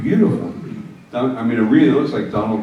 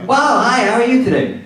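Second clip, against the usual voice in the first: much higher and louder, chirpy puppeteer's own voice; his own high voice; 12 semitones higher, 5 dB louder than usual. Retold or imitated. Ventriloquist imitating a man whose voice sits up high. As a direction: pitch it way up like the man's natural voice. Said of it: "the dummy's voice is lower than his voice is up here".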